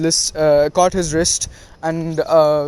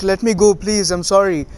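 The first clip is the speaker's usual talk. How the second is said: higher-pitched, lightly acted begging; mild mock pleading; 3 semitones higher than usual. Konohamaru held by Kankuro, trying to get free, mild mock pleading. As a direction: plead a little, as a retold captive. Captured boy begging to be freed.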